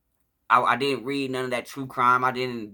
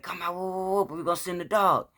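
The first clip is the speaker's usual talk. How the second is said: retold police warning, pitched up; police calling out; 6 semitones higher than usual. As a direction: imitate an officer calling a warning, without real volume.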